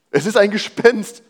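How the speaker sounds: mild fearful exclamation; frightened cry. Acted. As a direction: read it as terrified disciples. Frightened disciples quoted in reading.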